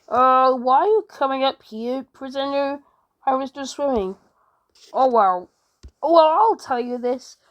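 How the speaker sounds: a hint of a gruff guard voice; lightly voiced jailer confronting a prisoner; stern guard. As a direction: play guard challenging a swimming prisoner, mildly stern.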